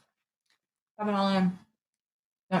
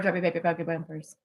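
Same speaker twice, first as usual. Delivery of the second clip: put-on Chubby Baby Buggy Bumpers slurred and softer, first word garbled; tongue twister flub; 5 semitones lower, 9 dB quieter than usual. Shown as a demonstration. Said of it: "Chubby Bunny or Rubber Baby Buggy Bumpers".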